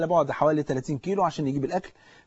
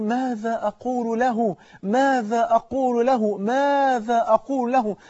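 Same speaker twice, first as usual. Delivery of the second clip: slow, higher-pitched mock cry, words drawn out; retold screaming; 5 semitones higher, slower than usual. Burning friend crying out in the car, retold screaming. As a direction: draw out each repeated cry, pitched up. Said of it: "وهو عمال بيصرخ".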